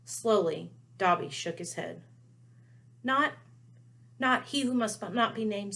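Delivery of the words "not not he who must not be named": lightly higher elf voice; a lightly voiced nervous elf; hint of house elf. Dobby voiced.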